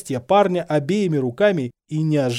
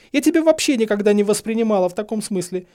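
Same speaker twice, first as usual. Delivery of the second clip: high, loud, distraught; tearful, high-pitched confession; almost sobbing; 8 semitones higher, 5 dB louder than usual. A narrator's reading. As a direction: protest as if about to burst into sobs. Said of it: "Тут уже она едва не разрыдалась".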